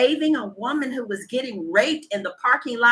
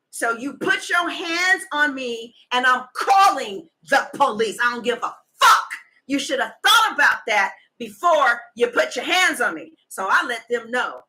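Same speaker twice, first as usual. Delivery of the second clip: heated rant; 2 semitones higher, 3 dB louder than usual. Real, not acted. Heated rant about pressing charges.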